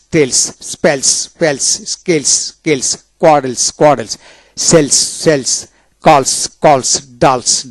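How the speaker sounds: ফলস ending in a hissed dental "s". Shown as a demonstration. Teacher drilling words where S follows L, dental S demonstration. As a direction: say স্কুলস with a clear final "s", not "sh". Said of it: "দন্তাস্য হয় জুন".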